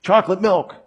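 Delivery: high-pitched calling for Dada, mock yell; yelling toddler. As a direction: imitate a little boy calling out insistently. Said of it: "he was yelling to me".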